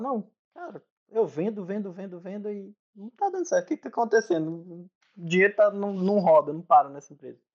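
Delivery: imitating a frantic business owner; worried client. Retold worried client complaining. (imitando um empresário aflito)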